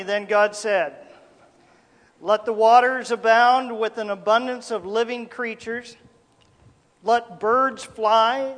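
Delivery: measured, solemn Bible reading; scripture reading. Acted. Preacher reading Genesis to his congregation, solemn scripture reading. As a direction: read the verses with weight, letting each phrase land.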